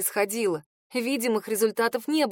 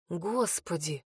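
ordinary delivery, nothing marked

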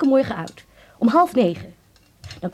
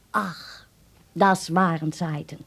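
wistful reminiscing; 6 semitones lower, much slower than usual. Acted. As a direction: sigh fondly over bygone days, slowly. Mijmert over vroeger. (weemoedig mijmerend)

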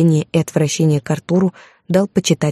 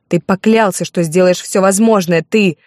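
shouting; 3 semitones higher than usual. Acted. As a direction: hurl the accusation at him. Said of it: "закричала я".

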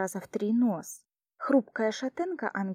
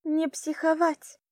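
perky and raised, slow; 7 semitones higher than usual. A narrator's reading. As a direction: cheer her up with a high, slow call. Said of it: "прозвучал задорно". (задорно и высоко)

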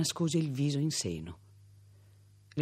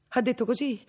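rising disbelief; 11 semitones higher, 4 dB louder than usual. A narrator's reading. Repeated, higher and louder.

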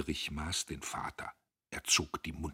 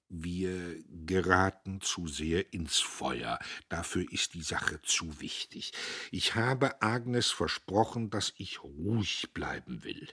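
trembling voice; slower than usual. Acted. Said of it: "nur dass sie zitterte".

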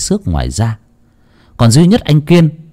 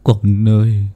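high, slow anguished wailing over a dead son; sobbing wail; 7 semitones higher, slower than usual. Acted. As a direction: cry his son's name out, drawn out and breaking. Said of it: "mếu máo".

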